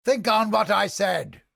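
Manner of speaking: called out. Acted. Mercenary calling a parting warning to an ally. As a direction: throw it after them as a parting call. Character barks in a game.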